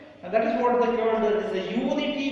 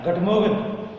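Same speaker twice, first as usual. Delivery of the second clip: "Good morning" in a supposed French accent, "gut mogen"; 4 dB louder than usual. Shown as a demonstration. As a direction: say "Good morning" the claimed French way, as "guh-MOH-gen". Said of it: "The French people say".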